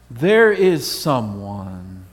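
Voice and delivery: ordinary talk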